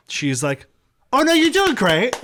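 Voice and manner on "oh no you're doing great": very high, cooing put-on reassurance; mock reassurance. Heckler to the flustered comic, mock reassurance. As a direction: imitate a patronizing heckler in a high voice. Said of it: "as she sees me flustered".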